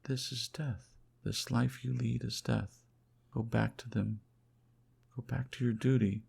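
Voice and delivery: a woman begging her lover to do his duty; urgent plea. Acted. She counsels him to go back.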